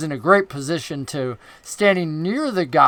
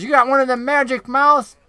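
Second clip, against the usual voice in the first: a raised, higher goblin call-out; goblin shout; 7 semitones higher than usual. Acted. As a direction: shout the question across as the goblin.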